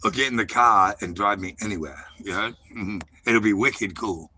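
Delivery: laying on an r-dropping New England accent; showing off accent. Shown as a demonstration. Proving the accent to a doubting caller, hammed-up New England accent. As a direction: demonstrate your New England accent with relish. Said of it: "There's your accent".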